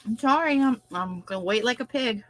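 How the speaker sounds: eating while talking; crunching chips. Real, not acted. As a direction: talk through a mouthful. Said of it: "But she's eating".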